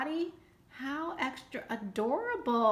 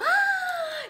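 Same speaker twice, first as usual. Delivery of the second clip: high sharp gasp of delight; thrilled gasp; 6 dB louder than usual. Real, not acted. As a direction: gasp with joy. Discovers wished-for stamp.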